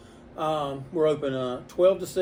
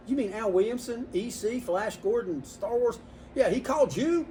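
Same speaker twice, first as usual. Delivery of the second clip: higher, rising disbelief as if star-struck; imitated amazement; 6 semitones higher than usual. Customers learn who was on the phone, mock incredulous. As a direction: act out a fan who can't believe it.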